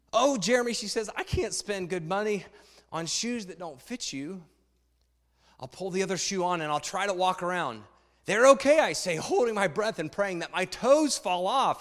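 put-on reading a children's book aloud to the congregation; story reading. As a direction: tell it like a picture book to a room.

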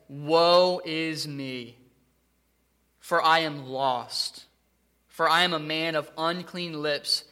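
slow, weighty Bible reading; solemn scripture reading. Acted. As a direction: read each word with gravity. Reading Isaiah slowly, solemnly.

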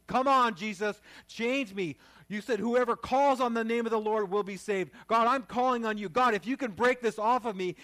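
loud, high, pleading cry to God; a preacher crying out to Jesus for a breakthrough, loud and high; fervent loud prayer. Shown as a demonstration. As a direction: pray it out at full force, begging. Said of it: "You gotta pray like that".

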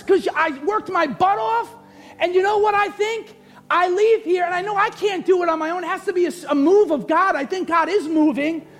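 high, driving preacher's delivery; preach. Real, not acted. Preacher urging the church to act on relationships, full-force preaching. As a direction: press the church hard, voice pitched high.

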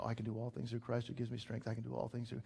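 quick, soft self-reminder; repeating to himself. Shown as a demonstration. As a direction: say it over and over under your breath, quickly. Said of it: "I need to kinda say it over and over".

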